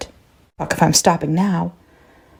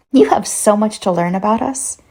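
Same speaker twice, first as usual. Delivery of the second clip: put-on child's voice; 4 semitones higher than usual. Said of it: "switched to a child's version again".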